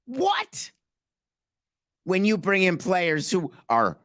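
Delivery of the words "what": mock surprise. Mock shock at Donaldson injury.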